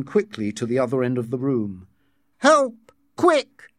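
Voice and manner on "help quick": high, loud cry for help; shouting. A narrator's reading. John calling across the ward, panicked shout. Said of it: "he shouted".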